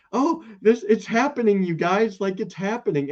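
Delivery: high-pitched imitation of giddy anticipation; hammed-up excited quote, pitched well up; mock excitement. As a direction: act out someone thrilled the big moment has come. Acting out Graham's long-awaited moment.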